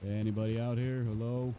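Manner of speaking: loud call into the woods; calling out loudly. Acted. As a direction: shout it out to anyone nearby.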